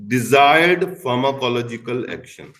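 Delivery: desired given the main weight; stress on desired. Shown as a demonstration. Lecturer to students, stressing desired. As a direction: lean on the word desired. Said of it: "I emphasize on the word desired".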